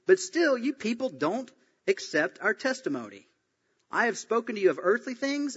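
challenging rebuke. Acted. Preacher reads Jesus questioning Israel's teacher, challenging rebuke. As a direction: read it aloud as an earnest challenge.

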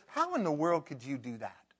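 loud scolding disbelief; mock browbeating of a sinner. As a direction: berate them from above. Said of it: "browbeat them or look down our nose".

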